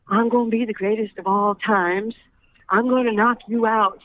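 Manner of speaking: put-on kid's cocky Ali boast; cocky breathless boxer boasts. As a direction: brag like a young boxer imitating Ali. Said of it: "why are you talking like that".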